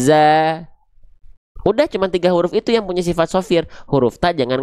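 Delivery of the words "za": long, loud voiced z opening ZA; sharp buzzing zai. Shown as a demonstration. Teacher showing the letter zai, za with a sharp voiced hiss. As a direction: hold a sharp buzz on the z before the vowel in za. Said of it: "desisanya tajam".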